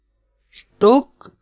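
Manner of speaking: light up at the chance to play; eager question. Acted. Svekla eagerly asking if they'll play the ball game, excited. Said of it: "kérdezte felcsillanó szemmel Svekla".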